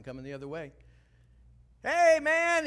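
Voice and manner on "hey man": high, loud breezy "hey man"; a hint of a guilty friend acting casual; casual greeting. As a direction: toss it off like nothing happened. Herman greeting him casually.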